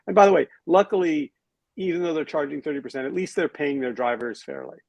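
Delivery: dry sarcastic aside; mock-sincere praise. Real, not acted. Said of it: "I'm delivering sarcasm there".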